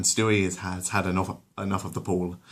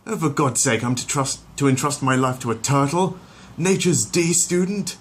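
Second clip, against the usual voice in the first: put-on higher, louder indignant baby sneer; scoffing Stewie voice; 7 semitones higher, 5 dB louder than usual. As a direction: scorn the silly turtle.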